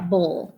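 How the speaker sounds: Bull said alone as a separate syllable; isolated syllable. Shown as a demonstration. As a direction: tap out Bull by itself. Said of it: "Second syllable".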